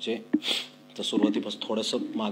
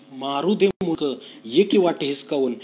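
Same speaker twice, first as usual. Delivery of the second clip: louder, higher rough call; harsh shout; 4 semitones higher, 8 dB louder than usual. Acted. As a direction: bark it out like an angry father. Father's remembered harsh words. (वडिलांचा रागीट मोठा आवाज)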